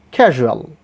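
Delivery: CASUAL with a short, lax u after the zh; correct short u. Shown as a demonstration. Teacher models the word, correct short u. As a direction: say "casual" with a light zhuh-ul ending. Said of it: "But not like this".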